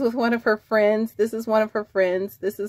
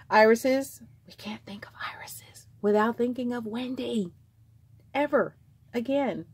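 whisper; 3 semitones higher than usual. Real, not acted. Hushed fond remark about irises.

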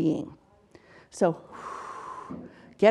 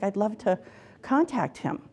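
retold tearful client; 5 dB quieter than usual. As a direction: gently imitate a client close to tears. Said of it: "And she was crying".

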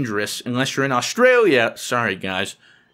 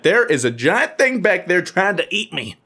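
retold panic; 5 semitones higher than usual. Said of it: "I'm like".

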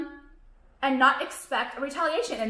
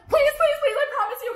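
laughing plea; 11 semitones higher, 3 dB louder, faster than usual. Real, not acted. Laughing plea to her haters.

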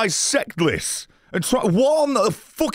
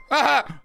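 mock yell; 5 semitones higher than usual. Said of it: "where I go".

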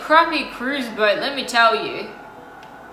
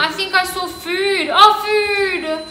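mock-sad wail; 5 semitones higher than usual. Real, not acted. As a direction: wail for the lost food, higher than usual. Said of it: "I'm so sad right now".

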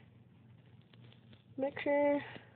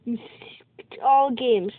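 whispering the taunt back, no voice; breathy mocking hiss of an insult; 2 semitones lower, 3 dB quieter than usual. Retelling how the enemy player taunted him, mock whisper. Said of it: "He was just like".

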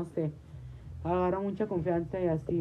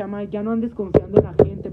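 warning; 2 semitones higher, 9 dB louder than usual. Retold or imitated. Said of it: "Le dije".

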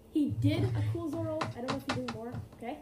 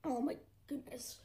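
whisper; 10 dB quieter than usual. Real, not acted. Reaction to hot sauce.

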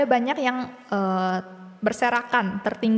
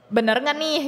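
higher, sceptical questioning tone; doubtful; 4 semitones higher than usual. Retold or imitated. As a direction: question it like an unconvinced wife. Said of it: "intonasi yang ragu". (dengan nada ragu)

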